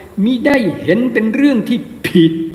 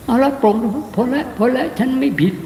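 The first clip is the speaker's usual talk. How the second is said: mock self-excusing monk; 2 semitones higher than usual. Voicing monk excusing himself.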